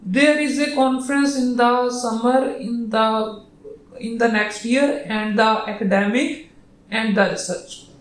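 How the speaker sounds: very slow, dragged-out search for the next word; groping for words. Retold or imitated. Teacher imitating a student in a test, groping slowly for words. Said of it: "बेचारा ये ढूंढने की कोशिश कर रहा है word".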